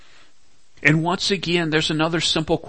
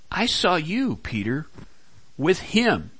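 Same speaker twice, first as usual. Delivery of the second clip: accusing; 5 semitones higher than usual. Retold or imitated. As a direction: accuse him to his face. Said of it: "And now someone's saying".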